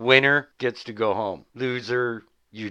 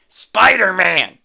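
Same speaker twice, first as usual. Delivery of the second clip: loud, slow, incredulous Spider-Man!; outraged exclamation; 9 semitones higher, 11 dB louder, slower than usual. Real, not acted. Host repeating the name, loud and incredulous. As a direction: stretch it out in disbelief.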